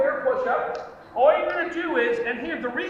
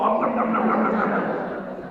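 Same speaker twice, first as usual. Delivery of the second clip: bear munching noise; 5 semitones lower than usual. Shown as a demonstration. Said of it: "and go".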